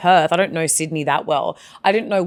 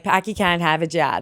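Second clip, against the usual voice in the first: broad Boston vowels; Boston accent. Shown as a demonstration. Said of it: "That's Boston".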